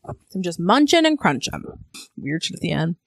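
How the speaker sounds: talking while chewing; words round a bite of pretzel; mouth full. Real, not acted. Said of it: "take a bite".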